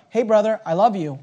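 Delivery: the right way to approach a brother, gently; gentle approach. Acted. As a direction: speak gently to your brother.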